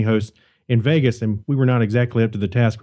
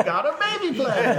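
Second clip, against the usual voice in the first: laughing; 10 semitones higher, 3 dB quieter than usual. Real, not acted. Joking planet family story.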